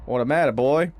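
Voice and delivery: quoting a movie bully. Retold or imitated. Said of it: "Back to the Future three".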